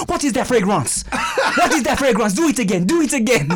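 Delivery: put-on African accent slipping into French; attempted African accent. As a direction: try an African accent and land half in French. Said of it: "The African dude was like".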